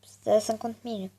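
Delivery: hushed whisper. Real, not acted. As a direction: whisper it to the viewers. Whispered aside.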